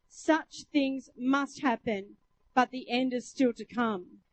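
measured, declaimed scripture reading. Acted. Preacher reading Jesus' warning of wars and birth pangs, measured declamation. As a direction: read it out deliberately as holy warning.

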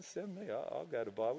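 very soft, low mock volunteering; subdued imitation of a volunteer; Eagle. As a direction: tail off in an offhand offer. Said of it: "Eagle, man".

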